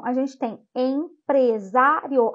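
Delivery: empresário said slowly with a firm final O; slow stressed demo. Shown as a demonstration. Teacher slowing down so students hear the vowel, stressed. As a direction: draw out empresário, leaning on the O. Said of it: "como a gente fala mais forte o O".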